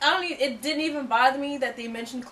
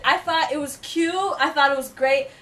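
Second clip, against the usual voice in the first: fake British accent; 3 dB louder than usual. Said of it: "we're doing our accents".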